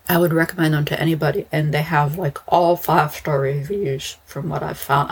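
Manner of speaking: mushy, slurred words; slurred speech. Real, not acted. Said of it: "I know I sound like I'm drunk".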